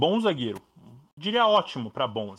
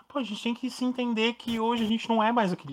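heated; 8 semitones higher than usual. Real, not acted. Heated rant about fans.

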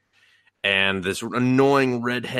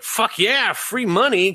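excited mock cheer; 13 semitones higher, 4 dB louder, slower than usual. Adventurers cheering the gold reward.

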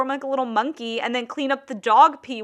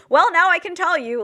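retold confession; 7 semitones higher, 5 dB louder than usual. Retelling the boss's sudden confession.

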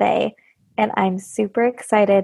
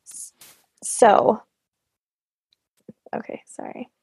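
hiccuping. Real, not acted. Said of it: "I'm hiccuping".

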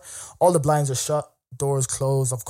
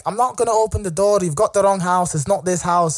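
lightly imitated Scottish woman, raised pitch; a higher, put-on Scottish accent; 5 semitones higher than usual. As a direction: mimic a Scottish woman refusing entry. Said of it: "very Scottish accent".

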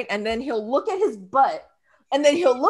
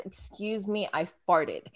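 mock polite husband; 7 semitones lower, 9 dB quieter than usual. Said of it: "he never says".

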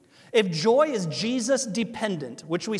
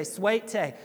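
put-on Southern accent. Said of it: "people down here talk funny".

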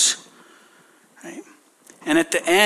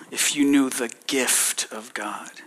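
hushed words of Jesus; 4 semitones lower, 5 dB quieter than usual. Acted. Jesus speaks gently to woman.

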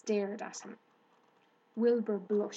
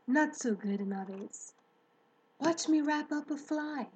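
Charlotte speaking. Acted. Charlotte's voice held.

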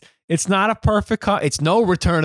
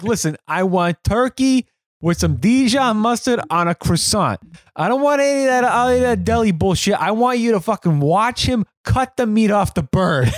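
higher, pushy mob-boss order, mildly hammed; demanding mobster; 4 semitones higher than usual. Podcaster quotes the movie's mobster ordering lunch, higher pushy voice. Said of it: "where he's like".

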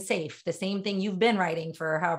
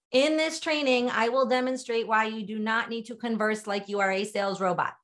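stiff, emphatic sales-robot delivery; over-enunciate it formally, every word in full; robotic. Shown as a demonstration. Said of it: "here's what somebody robotic might sound like".

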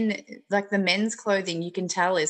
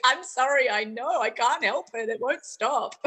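helpless apology; 4 semitones higher, slower than usual. Pretend. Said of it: "And I'll be like".

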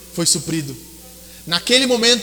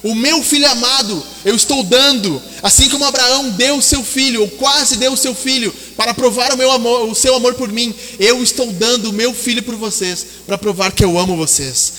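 God's voice, proclaiming. Acted. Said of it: "Deus estava dizendo".

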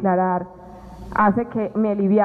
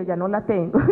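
says it through a real laugh; laughing it off lightly; giggling while answering her husband; 2 semitones lower than usual. Real, not acted.

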